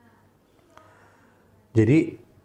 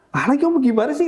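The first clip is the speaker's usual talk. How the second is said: much higher, exasperated teacher voice; teacher confused by the pupil; baffled teacher; 14 semitones higher, 3 dB louder, faster than usual. Retold or imitated. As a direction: play the puzzled teacher high.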